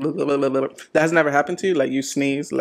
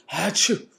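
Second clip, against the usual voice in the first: fake sneeze; 4 semitones higher, 3 dB quieter than usual. Shown as a demonstration. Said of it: "Do you do the".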